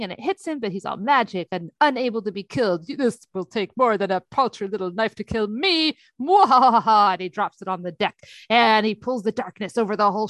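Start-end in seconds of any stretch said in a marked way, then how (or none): 2.9-6.0 gloating villain, voice put on; smug, menacing villain. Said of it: "full villain mode". 6.2-7.1 loud mwahaha cackle; hammy evil laugh; evil villain laugh. Retold or imitated. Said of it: "full villain mode".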